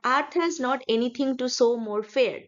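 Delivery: slow, measured line of verse; poem reading. Shown as a demonstration. Teacher reads aloud to find the rhyme, measured verse. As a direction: read the line out slowly and evenly. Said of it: "আমি পড়ছি".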